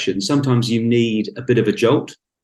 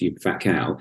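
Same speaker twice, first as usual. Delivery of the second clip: much softer, low muttered jibe; mock insult; 6 semitones lower, 6 dB quieter than usual. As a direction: drop the insult quietly like an aside. Mock insult in quoted opener.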